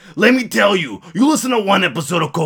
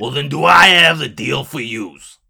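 big promo voice in character; screamed ad pitch; slower than usual. Acted. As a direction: stretch it out like a brash pitchman. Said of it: "I'm screaming".

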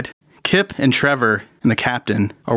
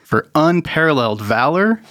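award speech; 2 semitones higher than usual. Acted. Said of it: "all you hear is".

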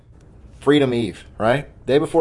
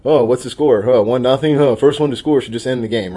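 mock teasing; 4 dB louder than usual. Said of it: "like to tease me and say".

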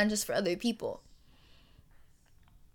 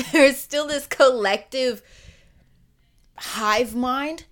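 louder retake, laughing; laughing through it; 4 semitones higher, 7 dB louder than usual. Real, not acted. Podcaster laughing as she restarts her thought, laughing loudly. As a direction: laugh as you restart the line. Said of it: "laughs, retakes the line".

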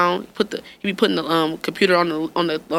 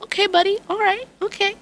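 patient teacher; 13 semitones higher than usual. Retold or imitated. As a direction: coax a little kid gently.

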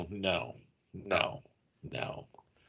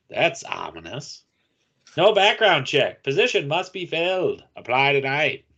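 vintage radio announcer read; hammy old radio ad voice; old-timey announcer; 5 semitones higher than usual. Pretend. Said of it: "in their best old-timey announcer voice".

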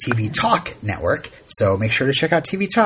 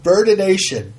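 amused; 7 semitones higher, 3 dB louder than usual. Shown as a demonstration. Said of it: "Let me look it up".

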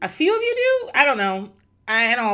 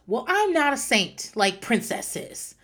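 mild mock yell, a bit higher; retold yell; 5 semitones higher than usual. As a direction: imitate a coworker yelling, only half-heartedly. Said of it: "One of them yelled".

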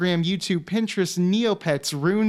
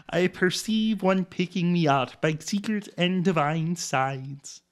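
slow mock German accent reading; mock German accent, fading to soft at the end; 4 dB quieter than usual. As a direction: recite the poem in a hammed-up German accent. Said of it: "in my German accent".

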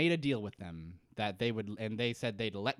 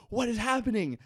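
higher, louder disbelieving cry; incredulous Kate; 10 semitones higher, 6 dB louder than usual. Retold or imitated. Kate seeing Jack shake hands with the others, high and loud. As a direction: gasp it out in shock. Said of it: "and is like".

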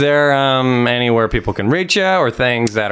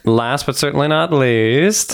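announcer voice; slower than usual. Acted. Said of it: "Can I say the last one?".

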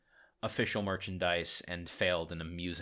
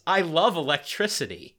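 catchphrase; 8 semitones higher, 10 dB louder than usual. Retold or imitated. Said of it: "with the catchphrase".

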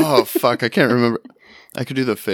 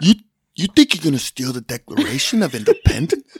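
a light De Niro tough-guy challenge; De Niro as Nick Cage; 4 semitones higher than usual. Retold or imitated. On request, De Niro playing Cage, lightly voiced tough guy. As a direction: lean in like a wiseguy calling someone out. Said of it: "Robert De Niro as Nick Cage doing that".

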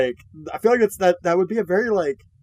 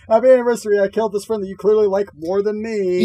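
mock cheerful; 5 semitones higher, 4 dB louder than usual. Voicing killer's twisted greeting.

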